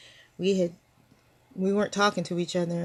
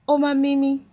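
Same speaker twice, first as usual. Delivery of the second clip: put-on child calling grandma; 6 semitones higher, 7 dB louder than usual. Granddaughter quoted calling her.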